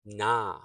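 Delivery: "na" as a firm, long NAH; stressed syllable. Shown as a demonstration. Teacher isolates the stressed sound, "na" said firmly. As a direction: lean on "na" with a full vowel. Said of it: "the second sound is stressed".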